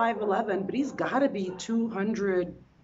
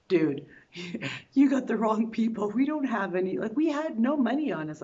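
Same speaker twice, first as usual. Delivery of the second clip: raised voice with a laugh in it; loud disbelieving protest; 3 semitones higher, 3 dB louder than usual. Retold or imitated. To the scammers, loud laughing protest. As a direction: tell them they picked the wrong people. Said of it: "I'm like".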